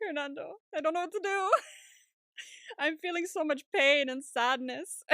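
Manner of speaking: hammed-up panic, pitched high; freaking out. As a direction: whine it in exaggerated mock anguish. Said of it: "he's freaking out".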